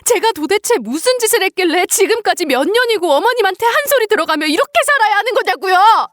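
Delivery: high-pitched, anguished outburst; defiant yelling. Acted. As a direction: refuse to back down, crying out in indignation. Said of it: "지지 않고 소리를 질러대며".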